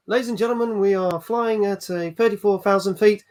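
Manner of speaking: lightly voiced mock cabin announcement; a hint of airline pilot on the intercom. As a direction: address the passengers like a captain announcing disaster matter-of-factly. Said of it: "Let's hear your best pilot voice".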